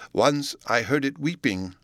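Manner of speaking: understated haunted telling, drawn out; haunted recollection. Acted. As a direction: recall it slowly, with a touch of dread. Butler recalls a dreadful sound.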